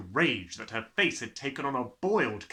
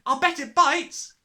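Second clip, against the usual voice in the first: high, excited squeal; 11 dB louder than usual. A narrator's reading. Lavender teasing in alarm.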